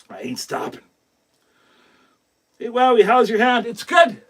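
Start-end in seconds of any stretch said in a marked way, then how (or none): 0.1-0.8 repeated low and much softer, almost to himself; a soft murmured promise to himself; quiet repeat. Real, not acted. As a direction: drop the voice and say it to yourself. Quiet repeat after long pause.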